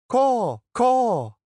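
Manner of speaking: high, loud mocking caws; taunting crow caws. A narrator's reading. Young woman heckling the friar with crow caws. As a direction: caw like a jeering crow.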